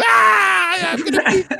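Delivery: put-on high, loud little-girl shriek of a kid gone wild; kid losing her head. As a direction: squeal it like a four-year-old losing at Connect Four. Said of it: "losing her head".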